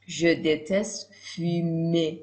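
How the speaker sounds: slow, drawn out sentence; slow model sentence. Shown as a demonstration. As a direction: model it slowly for listening. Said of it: "گوشتون رو تیز کنید".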